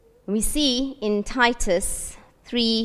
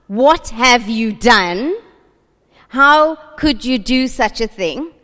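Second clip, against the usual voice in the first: louder, higher, slow scolding rebuke; accusing rebuke; 3 semitones higher, 4 dB louder, slower than usual. Retold or imitated. Preacher voicing the God people imagine scolding them, accusing. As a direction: hammer each accusation like a disappointed judge. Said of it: "That's not God's response".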